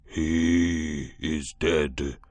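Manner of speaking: very slow, heavy monster words; slow beast voice. A narrator's reading. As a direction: drag each word out like a beast. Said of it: "said this monster".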